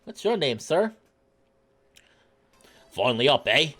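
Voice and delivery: big cheeky dockworker voice; teasing shark porter. Acted. Shark porter greets a late riser, teasing and hearty.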